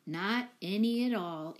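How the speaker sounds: slow, subdued echo; quiet answer. Acted. Mike answering Betsy about his mother, slow and subdued. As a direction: answer her plainly and sadly. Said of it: "answered Mike".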